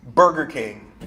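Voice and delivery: flat, matter-of-fact verdict; just state it, no softening; curt and certain; blunt answer. Shown as a demonstration. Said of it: "I can answer that one of two ways".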